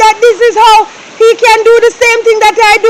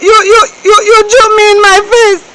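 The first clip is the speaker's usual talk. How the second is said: crying; much slower than usual. Acted. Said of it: "You're crying, you're crying".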